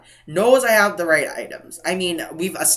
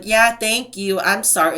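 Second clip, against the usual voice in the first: mock thanks, talking down; condescending; 4 semitones higher than usual. Cashier apologising to a departing customer, mock condescending. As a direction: imitate an insincere, superior apology. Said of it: "in a really condescending tone".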